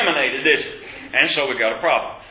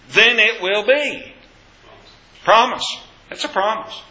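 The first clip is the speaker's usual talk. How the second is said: higher-pitched, emphatic preaching; emphatic assurance; 6 semitones higher than usual. Real, not acted. Preacher assuring the class of God's promise, emphatic. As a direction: drive each phrase home with a raised pitch.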